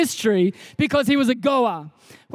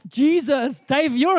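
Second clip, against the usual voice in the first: lightly attempted German accent; slower than usual. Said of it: "I always try to do the accent".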